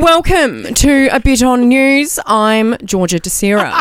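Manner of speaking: slow, formal TV news intro; news anchor voice. Acted. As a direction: open the bulletin like a newsreader. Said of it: "introduce yourself in your voice".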